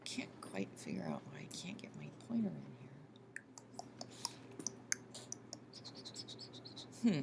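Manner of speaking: half-whispered, low puzzled aside; low, soft, whispery self-talk; muttering to oneself. Real, not acted. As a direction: murmur it under your breath while troubleshooting. Muttering to herself over computer trouble.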